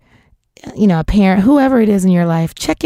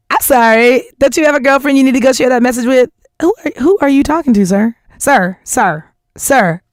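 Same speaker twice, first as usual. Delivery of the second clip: fast, higher sarcastic comeback; sassy retort; 4 semitones higher than usual. Retold or imitated. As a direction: snap back with mock politeness.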